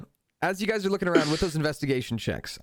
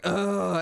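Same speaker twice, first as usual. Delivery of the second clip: mimicked groan of disappointment; drawn-out groan from a losing crowd; 4 semitones higher than usual. Shown as a demonstration. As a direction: give a short mock groan. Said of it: "you hear a mixture of groans".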